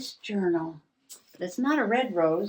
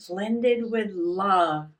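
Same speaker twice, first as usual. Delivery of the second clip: slow reading; much slower than usual. Retold or imitated. Reading the tea box.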